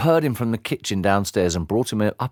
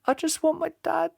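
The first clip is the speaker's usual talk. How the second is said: sniffed; 5 dB quieter than usual. Acted. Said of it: "sniffed the boy".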